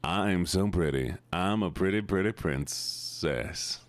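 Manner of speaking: slow, low cutesy uwu voice. Pretend. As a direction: coo like a cute princess. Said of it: "apparently an Uwu".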